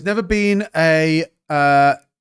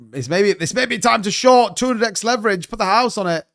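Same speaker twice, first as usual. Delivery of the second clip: mock hype; 5 semitones higher than usual. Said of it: "I'm kidding, by the way".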